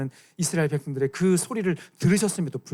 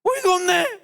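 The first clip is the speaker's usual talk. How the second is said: high, indignant snap; mock outrage; 4 dB louder than usual. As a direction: scoff in disbelief. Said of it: "이러면서 막 따지는 거지".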